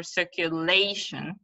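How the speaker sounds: circulation stressed on LA; stress on third syllable. Shown as a demonstration.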